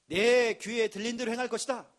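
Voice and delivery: loud ringing proclamation; proclaimed loudly. Acted. Preacher thundering God's verse at the congregation, loud. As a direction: declare it out to the hall. Repeats God's word forcefully.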